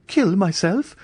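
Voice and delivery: high astonished question; incredulous cry. A narrator's reading. Andrea refusing the suggestion, incredulous. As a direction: cry out in disbelief. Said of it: "he cried".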